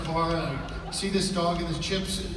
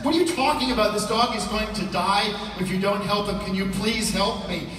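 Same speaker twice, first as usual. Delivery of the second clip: raised, pleading voice; frantic owner pleading with the vet, louder; 3 semitones higher, 4 dB louder than usual. Retold or imitated. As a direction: push harder, begging the vet. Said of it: "I said".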